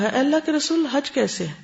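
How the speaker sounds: understated retelling of someone calling out; retold calling out. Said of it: "اس نے پکار کر کہا".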